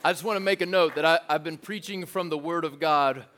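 playfully grumbling for applause; mock-offended preacher joke; mock complaint. Real, not acted. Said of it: "not gotten one applause".

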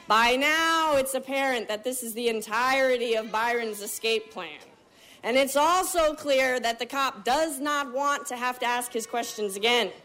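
usual speaking voice

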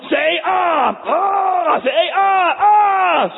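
very high, loud sing-song taunt; mock the patient gleefully; sadistic dentist. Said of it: "the dentist from Little Shop of Horrors".

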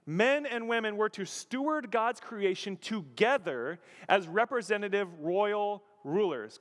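ordinary delivery

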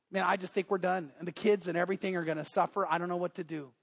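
mildly acted despondency. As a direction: let it sag a little, giving up. Worker confesses his marriage is over.

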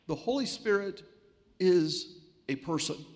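"The Holy Spirit is a person" spaced out, pausing before "is"; emphatic point. Real, not acted. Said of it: "emphasize this point".

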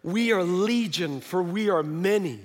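a hint of demon, unhurried; demonic voice. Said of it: "in a demonic voice".

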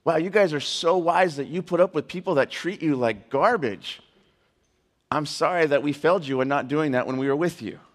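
mildly mocking praise and apology; understated sarcasm; sarcastic paraphrase. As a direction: voice Paul's words with dry sarcasm. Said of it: "Do you catch the sarcasm".

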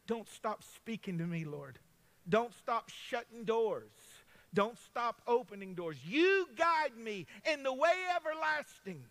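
loud, slow, rising preached prayer; fervent prayer. Real, not acted. Pastor praying over the congregation, loud and fervent. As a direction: cry out to the Lord in full force.

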